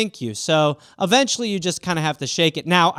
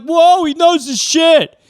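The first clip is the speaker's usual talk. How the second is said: awed believers; 7 semitones higher, 5 dB louder than usual. Retold or imitated. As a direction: play an impressed TV fan. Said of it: "the people are like".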